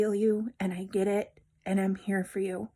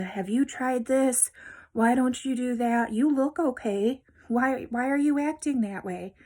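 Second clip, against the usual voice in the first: mocking doubters; 3 semitones higher than usual. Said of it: "Don't listen to the".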